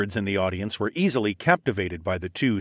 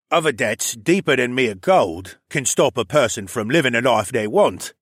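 pirate captain voice; 4 dB louder than usual. Acted. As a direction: lean in like a sly pirate. Lerman voiced, wistful.

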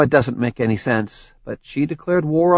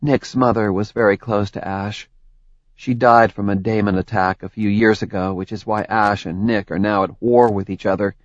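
Tori, a touch sad and rueful; wistful, a hint of heartbreak; mild sadness. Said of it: "Her expression turned dark and sad".

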